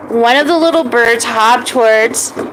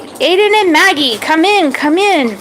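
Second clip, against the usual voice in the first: calling out; 5 semitones higher than usual. Acted. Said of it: "called out from his shop".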